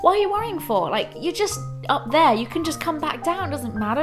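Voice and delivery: high, brisk reassuring dad voice; incredulous dad. Retold or imitated. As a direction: brush off the worry, lively.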